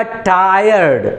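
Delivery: टायर्ड stretched into two beats; syllable demonstration. Shown as a demonstration. Teacher showing class a double syllable, stretched in two parts. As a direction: draw out टायर्ड so both syllables show. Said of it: "देखो दो बार में निकला".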